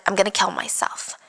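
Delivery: retold softly, falling away; near-whispered threat. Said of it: "almost whispering, threatening to end her own life".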